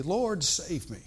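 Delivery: a touch of Peter's urgent cry. Retold or imitated. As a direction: call out for help, partly acted. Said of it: "Peter cried out".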